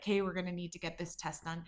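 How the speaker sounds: quiet whisper. Telling a story, the speaker quotes what he whispered to Christina: retelling a whisper. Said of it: "I see him whisper to Christina".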